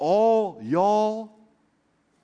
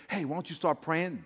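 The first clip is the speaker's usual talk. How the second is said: small still voice; 7 dB quieter than usual. Retold or imitated. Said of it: "hear a voice say".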